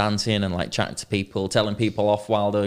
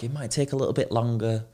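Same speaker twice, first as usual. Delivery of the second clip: put-on Dutch accent; 2 semitones higher than usual. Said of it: "in a Dutch accent".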